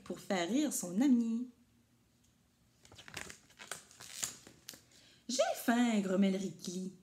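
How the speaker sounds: put-on lively read-aloud for young kids; storybook reading. A narrator's reading. Teacher reading a picture book to her class, lively storytelling.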